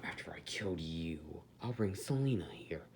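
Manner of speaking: low, quiet menacing threat; threatening tone. Acted. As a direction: threaten him under your breath. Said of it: "I think it's a threatening tone".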